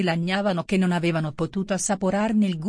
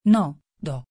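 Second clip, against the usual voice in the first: low, sharp, a bit louder retort; sharp and angry; 4 semitones lower, 3 dB louder than usual. A narrator's reading. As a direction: snap it back, mildly irritated. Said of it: "con voce acerba e dirata".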